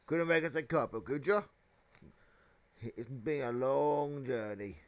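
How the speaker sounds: big rough-mannered giant, casually asking; hearty giant. Acted. Giant asking the family for tea, casual giant voice. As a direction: play the giant making himself at home.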